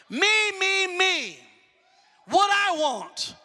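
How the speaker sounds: mocking selfish whine. Mocking self-centered church.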